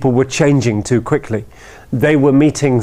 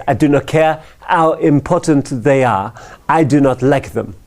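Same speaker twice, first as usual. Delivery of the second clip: put-on French accent. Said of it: "it's France, after all".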